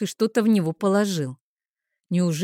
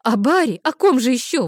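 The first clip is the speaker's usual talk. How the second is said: raised, louder impatient cry; exasperated exclamation; 6 semitones higher, 5 dB louder than usual. A narrator's reading. Friend naming her missing brother to Arina, exclaiming impatiently. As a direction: exclaim it as if it were obvious. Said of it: "воскликнула Айла".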